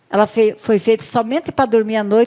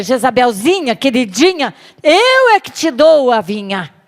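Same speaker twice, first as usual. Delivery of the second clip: higher, louder commanding wife; bossy Jezebel; 5 semitones higher, 5 dB louder than usual. Acted. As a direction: order him up.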